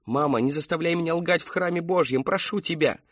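high-pitched begging; desperate plea. A narrator's reading. Daughter begs mother.

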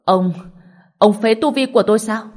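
stammered, loud shocked outrage; shocked and angry. A narrator's reading. Diêm La crippled by Từ Quý Phi, shocked and angry. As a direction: cry out in disbelief and anger. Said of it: "vừa kinh ngạc vừa tức giận".

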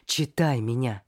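firm urgent order; command. Acted. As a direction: order her to read you. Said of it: "приказала я".

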